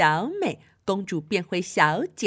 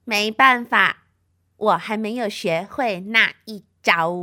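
second sister excuse; 5 dB louder than usual. Acted. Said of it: "二姐说".

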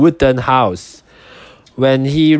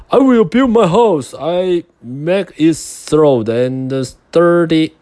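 determined pig voice; 5 semitones higher than usual. Acted.

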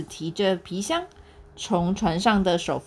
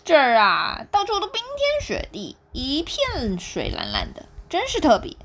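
wry laugh; 4 semitones higher than usual. Acted. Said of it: "飞普苦笑说".

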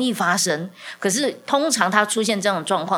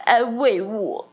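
put-on slow, higher little-child plea; voicing her child; 4 semitones higher, much slower than usual. Mother imitates her crying toddler asking for comfort, slow and higher. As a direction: ask for comfort like a small child, slowly. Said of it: "然后他就说".

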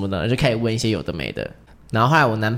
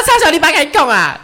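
higher and louder, lightly voiced dad giving up with a laugh; a hint of a grumbling dad; 8 dB louder than usual. Father conceding the argument to daughter 小丽, lightly voiced and laughing. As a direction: play the dad who can't out-talk his daughter, half laughing.

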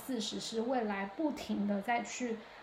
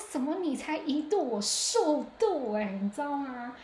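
mock indignant disbelief; 4 semitones higher, 4 dB louder than usual. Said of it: "我说".

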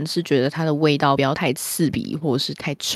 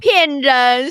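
loud callout; 6 semitones higher, 6 dB louder than usual. Real, not acted. Calling out co-host.

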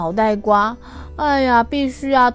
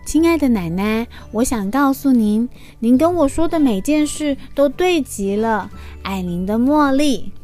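gentle, lively storybook voice; reading to a toddler. Acted. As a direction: read it sweetly to little kids.

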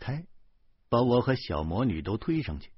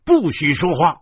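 shouted order; 7 semitones higher, 10 dB louder than usual. A narrator's reading. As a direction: cut him off sharply. Cop silencing prisoners.

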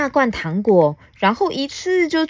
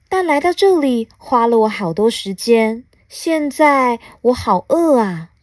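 lightly voiced alien, slightly raised; hungry little alien; 4 semitones higher, 4 dB louder than usual. Alien after a long trip complains of hunger, mildly plaintive. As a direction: draw out the hungry complaint at the end.

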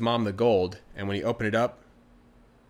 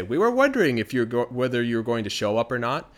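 lightly voiced eerie women, a bit louder; a hint of banshee chorus; 4 dB louder than usual. The banshees tease the late Pooka with light eerie voices. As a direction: tease him gently like a waiting crowd.

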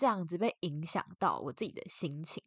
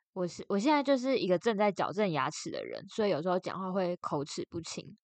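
slightly slurred through braces; speaking around a mouthful of braces. Real, not acted.

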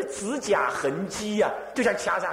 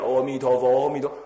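阿弥陀佛 chanted with more voice, firmer; a bit louder; 5 semitones lower, 4 dB louder than usual. Retold or imitated. Monk pushing back the spinning spirit, chanting louder. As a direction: raise the recitation a notch. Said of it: "我再大声一点".

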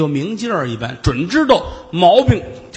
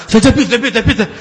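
impatient hush up; 5 semitones higher, 6 dB louder, faster than usual. Acted. Official cuts off chattering woman.

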